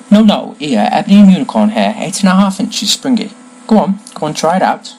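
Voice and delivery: brisk, fussing wand seller; lightly voiced Ollivander. Wand seller urges customer to try another, briskly insistent. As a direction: hurry the customer on to the next wand.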